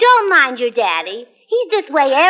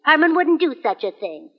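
ordinary talk, nothing marked

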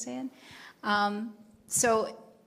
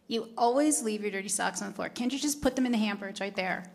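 accusing complaint, lifted in the middle; nagging demo; 3 dB louder than usual. Shown as a demonstration. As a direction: demonstrate an exasperated nag. Demonstrates how not to complain.

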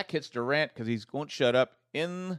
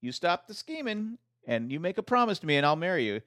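voicing Durant; 4 semitones higher than usual. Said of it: "he goes".

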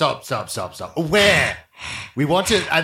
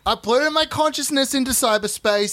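put-on ten-year-old boy voice; 3 semitones higher than usual.

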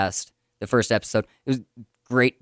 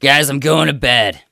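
excited; 3 dB louder than usual. Shown as a demonstration. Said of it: "it's very excitable".

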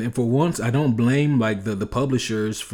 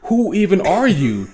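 put-on bewildered kid; 8 semitones higher, 4 dB louder than usual. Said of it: "he looks up at Batman and goes".

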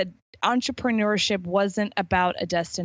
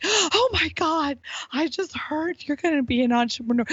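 panicked mom; 8 semitones higher than usual. Retold or imitated. Mom phoning about her child becoming an entrepreneur, mock panic. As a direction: freak out as an alarmed mother. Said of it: "in panic".

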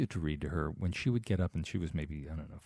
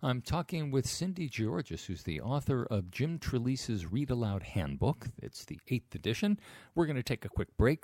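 higher-pitched announcer-style outro; radio host sign-off; 6 semitones higher than usual. Acted. Host tells listeners of a quick break, presenter voice. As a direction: lift it like a host heading to a break.

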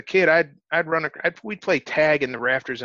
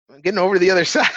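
retold shout; 5 semitones higher, 8 dB louder, much faster than usual. Calling back mid-flip, retold.

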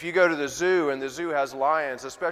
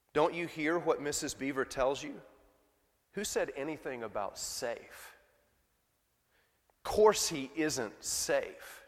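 British Beaver; 5 dB quieter than usual. Acted. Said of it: "He does have a British accent".

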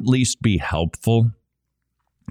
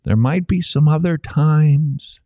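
forceful; 4 semitones higher, slower than usual. Shown as a demonstration. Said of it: "we must speak like this".

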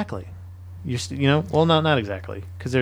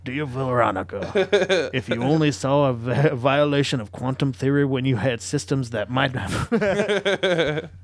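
slow, hammed-up soldier writing home; drawn-out mock sweetheart letter reading; Civil War soldier letter; slower than usual. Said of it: "like a Civil War soldier, writing back to his sweetheart".

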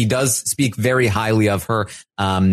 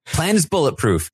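higher-pitched, sure-of-herself announcement; confident; 6 semitones higher than usual. Retold or imitated. Paloma reports to her ally, full of confidence. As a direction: imitate someone breezily sure of the plan. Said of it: "Paloma comes up full of confidence".

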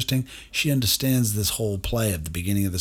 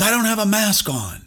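mock old man snapping, pitched high; a lightly acted angry old-timer yelling; old man scolding the masked stranger, high mock yell; retold yell; 10 semitones higher than usual. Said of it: "He's yelling at me".

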